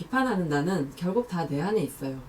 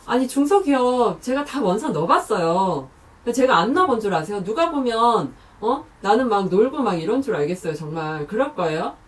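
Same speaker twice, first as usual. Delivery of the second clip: louder, rushed protest at a nagging parent; indignant job seeker; 3 semitones higher, 5 dB louder than usual. Acted. Job seeker snapping back at a nagging parent, indignant and loud. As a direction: defend yourself, hurt and fed up. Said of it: "연기가 조금 어설펐지만".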